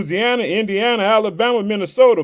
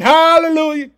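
shouting; 6 semitones higher, 4 dB louder than usual. Retold or imitated. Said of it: "I woke up shouting".

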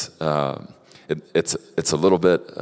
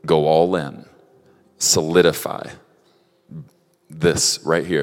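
louder, firm call to go all in; firm command; 4 dB louder than usual. Retold or imitated. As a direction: declare it like God's command. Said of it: "I sense the Lord saying".

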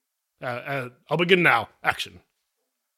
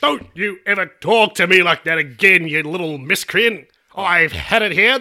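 shaking with anger; 4 dB louder than usual. Acted. Bricklayer offended by innuendo.

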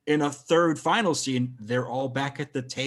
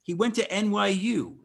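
incredulous insistence; 7 semitones higher than usual. Real, not acted. Caps the incredulous rant.

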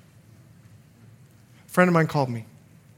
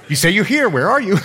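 louder, higher retold challenge to God; 5 semitones higher, 6 dB louder than usual. Preacher acting out his reply to God, out loud. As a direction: call out as if searching for someone. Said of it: "I said it out loud".

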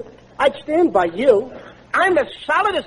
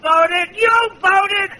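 rising placating repeats; 5 semitones higher, much slower than usual. Acted. Costello placating angry cabby.

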